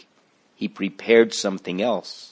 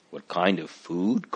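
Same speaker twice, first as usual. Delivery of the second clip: softer, rising echo of the question; surprised; 4 dB quieter than usual. Acted. Christiana echoing the doctor, mildly surprised. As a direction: catch the question back in mild surprise. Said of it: "Christiana asked in surprise".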